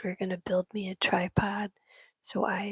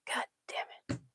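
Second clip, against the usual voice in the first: relieved cry; 7 dB quieter, much faster than usual. Retold or imitated. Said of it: "and I went".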